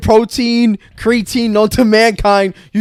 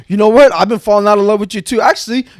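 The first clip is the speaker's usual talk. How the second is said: a touch louder and higher, mock casual breakup; proud fake indifference; 3 semitones higher, 4 dB louder, faster than usual. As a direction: brush her off with hammed-up pride. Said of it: "his pride just going".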